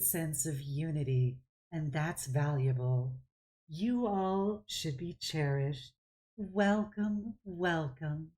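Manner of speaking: serene druid. Acted. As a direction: bless them unhurriedly, like a gentle elder. Druid blesses the party.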